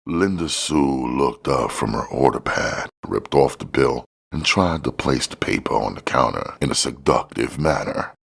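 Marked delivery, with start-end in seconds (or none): none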